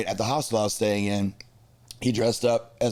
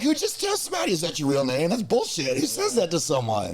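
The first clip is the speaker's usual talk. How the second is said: indignant; 6 semitones higher than usual. Retold or imitated. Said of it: "but I was like".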